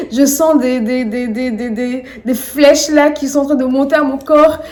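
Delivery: shouting at God from a hospital bed; raging at God. Retold or imitated. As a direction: demand that God stop the pain. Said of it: "j'ai commencé à péter un câble sur Dieu".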